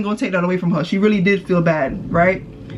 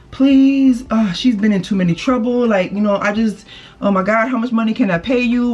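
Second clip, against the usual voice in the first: imitating the mom; 3 semitones higher than usual. Mother begging the speaker not to press charges, pleading. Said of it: "she's like".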